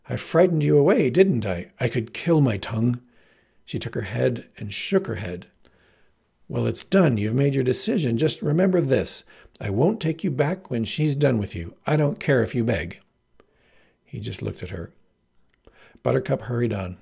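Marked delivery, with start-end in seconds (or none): 0.1-3.0 distressed outburst. Acted. Heroine blames herself for frightening him away, distressed. 6.5-13.0 mildly angry, emphatic dismissal; indignant. Acted. Heroine tells farm boy she won't take him back, indignant.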